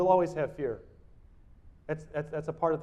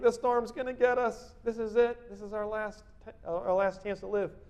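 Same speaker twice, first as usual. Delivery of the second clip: mock panic, raised pitch; panicking disciples; 5 semitones higher than usual. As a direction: act out frightened men in a storm.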